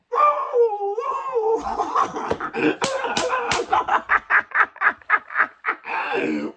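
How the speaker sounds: high, shrieking burst of laughter; a long, loud, high laugh that nearly turns to crying; loud laughing fit. Real, not acted. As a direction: break up laughing helplessly. Laughing at the drunk man.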